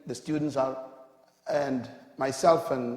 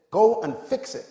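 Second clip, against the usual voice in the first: mild mock shout of the boss's order; retold shout; 7 semitones higher, 6 dB louder than usual. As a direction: raise it a little, like an angry boss's order. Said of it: "And he shouted at me".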